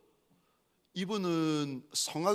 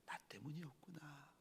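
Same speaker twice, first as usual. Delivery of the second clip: barely audible, very soft; hushed realisation; 21 dB quieter than usual. Retold or imitated. Son weeping over his mother's sacrifice, hushed. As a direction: let the words sink to nearly nothing. Preacher repeats the tearful realisation.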